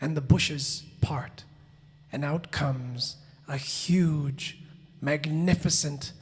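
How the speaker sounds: slow, low storytelling with long pauses; hushed suspense. A narrator's reading. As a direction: draw out each word to build suspense. Suspense as the bushes part.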